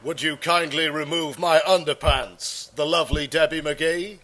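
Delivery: lightly voiced magician impression, measured and polite; a hint of mock formality; Paul Daniels. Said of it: "He doesn't talk like that".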